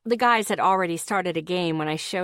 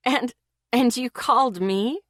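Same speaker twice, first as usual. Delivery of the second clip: higher and louder, laughing out the words; through laughter; 5 semitones higher, 4 dB louder than usual. A narrator's reading. Girlfriend laughing at her boyfriend on the phone. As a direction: squeeze the question out mid-laugh. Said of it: "I managed through the laughing".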